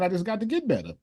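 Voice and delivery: quoted back in disbelief; incredulous quote. Retold or imitated. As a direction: throw his own words back at him. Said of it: "who did you just make feel better by saying".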